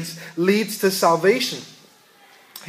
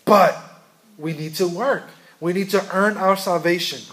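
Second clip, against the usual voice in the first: mocking Russell. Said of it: "he's saying".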